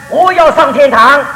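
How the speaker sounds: put-on half-shouted quote of the old missionary; retold shout. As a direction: proclaim it as a retold cry. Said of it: "大声地喊说".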